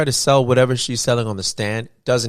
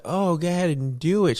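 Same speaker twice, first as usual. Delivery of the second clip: mock cackling; 8 semitones higher than usual. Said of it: "there's this one where she's cackling".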